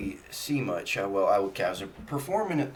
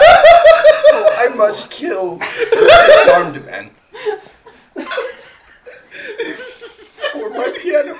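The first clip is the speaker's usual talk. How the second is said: hammed-up vow of revenge, laughing, high and loud, slow; 18 dB louder, slower than usual. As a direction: swear vengeance while cracking up. Bard vows revenge, overacted.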